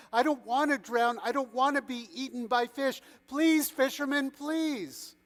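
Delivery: begging. A narrator's reading. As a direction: plead for your life. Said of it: "he begged".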